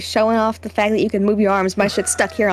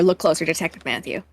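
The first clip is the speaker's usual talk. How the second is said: ominous villain note; 7 semitones lower, 5 dB quieter than usual. Retold or imitated. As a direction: read the note like a creepy killer.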